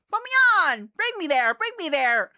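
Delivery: hammed-up eagerness; mock eager. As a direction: beg to be put on screen.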